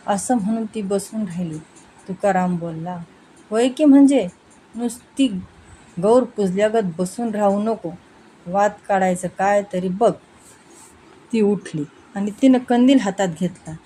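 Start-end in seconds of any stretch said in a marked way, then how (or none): 3.5-10.1 sharp scolding husband's retort; irritated husband. Acted. Husband scolds his wife during the night-time scare. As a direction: snap at her to stop sitting idle.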